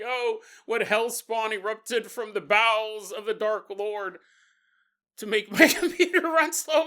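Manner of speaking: hammed-up melodrama that breaks into giggles; mock doom-laden lament. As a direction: ham up a dad cursing dark forces. Dad's mock dramatic complaint.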